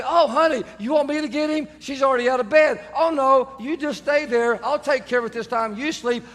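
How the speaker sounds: a hint of sly sweetness; mock sweet offer. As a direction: play the innocent husband offering help. Fake-sweet offer to wife.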